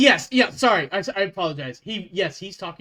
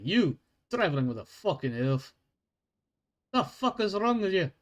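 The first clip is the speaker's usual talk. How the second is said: dwarf guard lecturing. Acted.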